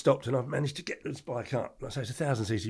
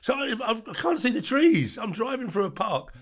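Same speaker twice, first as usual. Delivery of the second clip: high and loud through laughter; giggling while telling the story; laughing; 13 semitones higher, 5 dB louder than usual. Real, not acted. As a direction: laugh it out in disbelief. Laughing at his own story.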